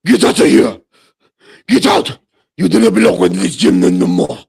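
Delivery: loud, high mock South African yelling; imitated South African accent. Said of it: "he was like".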